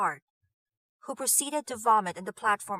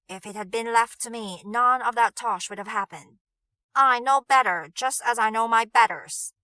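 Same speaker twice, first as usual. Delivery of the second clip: louder and rising to a hard push on I; indignant retort; 8 dB louder than usual. Acted. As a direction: snap back, offended and heated. Nigel angrily retorting to Arjun.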